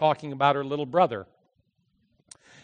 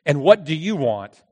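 annoyed; 5 dB louder than usual. Retold or imitated. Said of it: "the pharmacist asked in an annoyed voice".

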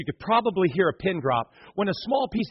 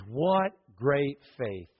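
admiring; 4 semitones lower, 3 dB quieter, much slower than usual. Acted. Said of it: "He says".

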